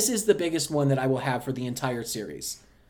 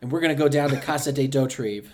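put-on Cajun accent. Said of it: "Are you Cajun right now?".

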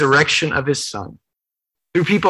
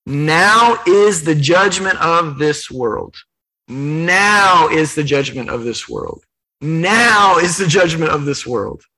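slow solemn pronouncement; slower than usual. Acted. Repeats Jesus' solemn pronouncement slowly.

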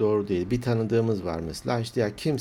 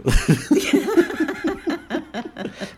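high, loud helpless laugh; burst of laughter; 5 dB louder than usual. Real, not acted. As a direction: crack up laughing. Laughing at the joke.

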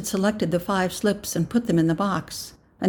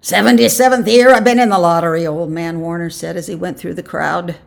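put-on boasting old man; 8 dB louder than usual. A narrator's reading. Old man going through the crowd, loud boast. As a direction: proclaim it to the crowd.

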